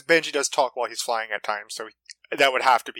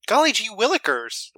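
a higher golly-gee fifties voice; corny sitcom voice; 6 semitones higher than usual. Retold or imitated. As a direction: lightly mimic the corny hero. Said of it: "And I was like".

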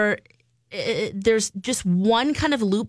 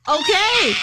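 pterodactyl; 9 semitones higher, 4 dB louder than usual. Pretend. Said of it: "That's my pterodactyl noise".

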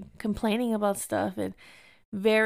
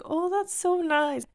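higher, drawn-out grateful gush; touched gushing; 7 semitones higher, slower than usual. Retold or imitated. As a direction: gush slowly over a sweet gift, pitched up. Retold grateful reaction to a gift.

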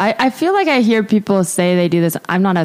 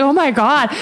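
higher-pitched mock concern; imitated apologetic reaction; 5 semitones higher than usual. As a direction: act out someone mortified and sorry. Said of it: "he was so apologetic".

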